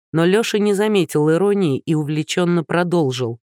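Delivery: ordinary delivery, nothing marked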